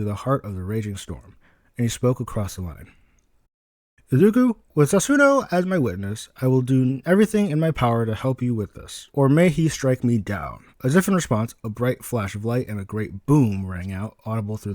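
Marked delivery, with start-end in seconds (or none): 4.1-10.6 raised, louder, slowing at the end; solemn vow. Acted. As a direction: swear it like a sacred oath.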